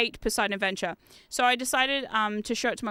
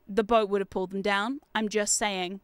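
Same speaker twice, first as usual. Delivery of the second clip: deadpan; 4 semitones lower than usual. Retold or imitated. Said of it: "Deadpan face".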